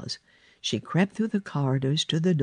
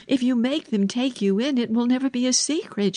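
put-on high, urgent girl's voice; Mary; 9 semitones higher, faster than usual. A narrator's reading. Girl begging the boy to keep a secret, high and urgent. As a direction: plead to keep it hidden, pitched high.

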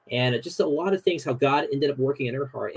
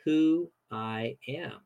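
calm God voice; slower than usual. Retold or imitated. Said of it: "God essentially says".

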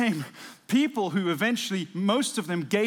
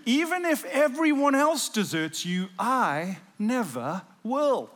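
raised, boastful vow, last words slowed; higher, emphatic vow; voicing Peter's boast; 5 semitones higher, 3 dB louder, slower than usual. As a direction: Peter swearing he'll never leave.

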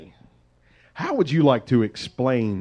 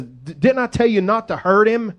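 Reuben scolding; 4 semitones higher than usual. Acted. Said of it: "Reuben... speaks up and says".

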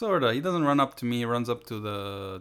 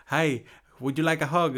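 put-on Latino accent; 4 semitones higher, 4 dB louder than usual. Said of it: "I can do that accent".

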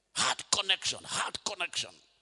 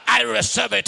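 plain; 8 semitones higher, 16 dB louder than usual. Shown as a demonstration. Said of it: "Say it better".

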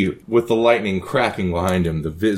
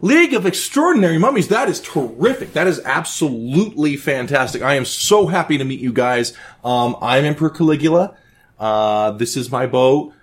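much higher, giddy manic emperor chatter; Caligula, coked-out host; 8 semitones higher than usual. Acted. Caligula fawns over the guests on his boat, high and manic. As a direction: play a wired, delighted emperor.

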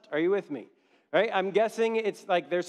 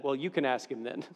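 put-on sweet old woman; 5 semitones lower, 4 dB quieter than usual. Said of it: "this sweet old woman looked at him and said".

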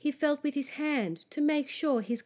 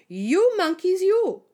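loud, higher-pitched telling-off in a story; scolding; 7 semitones higher, 8 dB louder than usual. A narrator's reading. Peddler shaking his finger at monkeys, scolding. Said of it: "shaking his finger at them".

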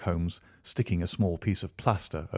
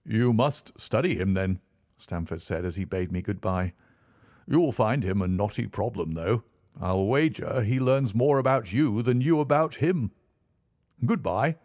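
Stamford voice; 3 semitones higher than usual. Acted.

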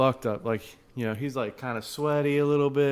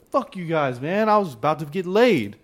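mock pissed; 5 semitones higher, 4 dB louder than usual. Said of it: "and he was pissed".

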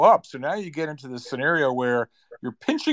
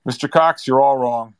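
louder, firm dismissal; mining CEO dismissing; 6 dB louder than usual. Retold or imitated. CEO telling Mister Cox he is wrong, louder. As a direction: brush him off with a raised voice. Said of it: "the C E O said".

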